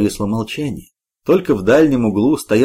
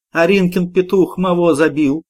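complaining; 7 semitones higher than usual. A narrator's reading. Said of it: "пожаловалась Груша".

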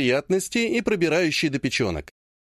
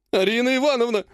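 desperate howl; 7 semitones higher than usual. Acted. Ogonkov howling in despair at the clan head. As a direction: howl it like a wounded animal. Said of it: "взвыл он, как раненый зверь".

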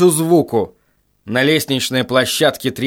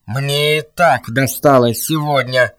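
slow metallic robot voice. Acted. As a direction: drag it out like a tired machine. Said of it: "металлический голос робота".

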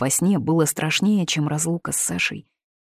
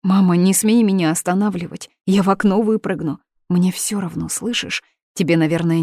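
hysterical defiance. Acted. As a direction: fight them off in a frenzy. Daughter defies parents in hysterics.

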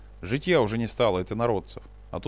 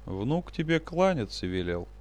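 indifferent nasal voice; 2 semitones higher than usual. Acted. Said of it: "тихо и равнодушно прогнусил".

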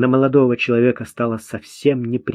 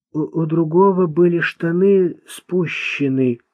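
higher-pitched, gloating smile in the voice; 5 semitones higher than usual. A narrator's reading. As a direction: relish it with a spiteful smile. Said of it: "злорадно улыбаясь". (злорадно, с улыбкой)

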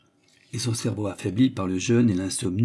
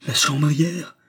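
angry roar; 5 semitones higher, 4 dB louder, slower than usual. A narrator's reading. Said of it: "rugit Klutz, galvanisé par la colère".

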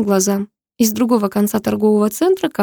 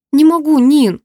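1 pleading outburst; 5 semitones higher, 5 dB louder than usual. A narrator's reading. Pleading with friend in car.

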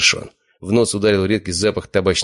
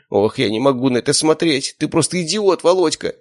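despairing high wail; 10 semitones higher than usual. A narrator's reading. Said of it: "бормотал братец рядом".

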